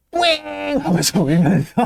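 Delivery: high mock child whine, slow; mock whimper. Lecturer retelling Yniold crying, mock high whimper. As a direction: whimper like a bratty kid, hammed-up. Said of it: "뿌잉 하고 울면서".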